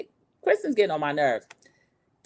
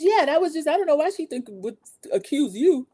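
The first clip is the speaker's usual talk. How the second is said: voicing Natalie; 9 semitones higher than usual. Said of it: "She says".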